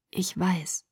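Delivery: soft, tender whisper. Acted. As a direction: whisper it close, reassuringly. Whispered exchange at her ear.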